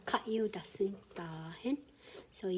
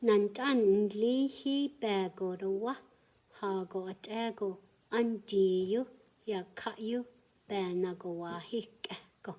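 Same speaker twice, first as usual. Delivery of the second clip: prayer recitation. Shown as a demonstration. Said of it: "let me start from".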